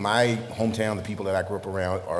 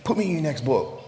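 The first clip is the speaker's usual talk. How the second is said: eager, higher-pitched hometown acquaintance; playful quoted plea with a higher lift; imitating townsfolk; 6 semitones higher than usual. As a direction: lightly act out a cheeky request, amused. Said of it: "they'll say".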